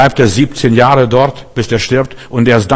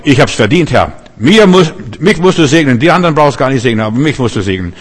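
arrogant Pharisee; 2 semitones higher, 3 dB louder than usual. Acted. A self-righteous believer demanding blessing from God, loud and entitled. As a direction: claim the blessing as yours by right. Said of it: "das ist Pharisäertum".

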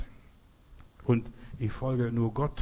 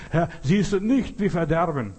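panicked plea; 4 semitones higher, 5 dB louder than usual. Retold or imitated. Disciples panic in storm.

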